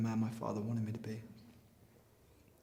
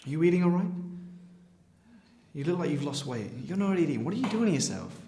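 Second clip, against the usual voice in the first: worried; 4 semitones higher, 5 dB louder than usual. Acted. Son worried about mother's weight.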